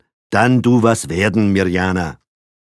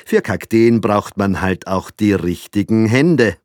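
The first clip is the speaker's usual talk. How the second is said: flattering small talk; 6 semitones higher, 7 dB louder than usual. A narrator's reading. Father flatters Frau Blaha.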